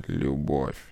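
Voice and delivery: низкий тихий рокот дьявола; пророкотать слово «Любовь» утробно и тихо; рокочущий дьявол. A narrator's reading. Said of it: "пророкотал дьявол". (дьявол рокочет Славе ответ, низко и тихо)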